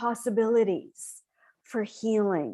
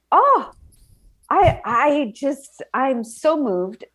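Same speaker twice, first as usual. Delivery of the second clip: choked up; 3 semitones higher, 4 dB louder, slower than usual. Real, not acted. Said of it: "I'm about to do the ugly cry".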